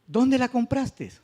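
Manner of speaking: "Dónde" pitched high and drawn out; slow question, high on "Dónde", falling at the end; emphatic accent on DÓNDE. Shown as a demonstration. Teacher reads example question to class, high emphatic "Dónde". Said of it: "se le da especial pronunciación".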